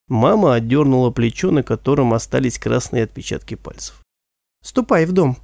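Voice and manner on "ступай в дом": cold. Acted. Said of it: "холодно произнесла она".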